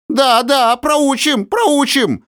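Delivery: very high, loud yapping echo; eager agreement. Acted. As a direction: chime in with new courage. Nix eagerly backs threat. (визгливое поддакивание)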